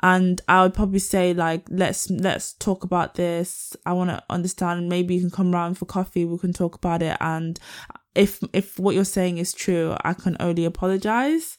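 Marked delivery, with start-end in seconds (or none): 1.7-11.6 friendly and humble. Pretend. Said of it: "friendly, and I'll be humble".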